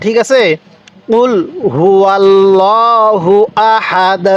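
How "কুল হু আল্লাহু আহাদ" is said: word by word, drawn out; slow recitation. Shown as a demonstration. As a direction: recite slowly for learners to repeat. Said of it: "আরেকবার আমার সাথে পড়ুন".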